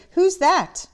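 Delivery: startled. A narrator's reading. Fred startled at door.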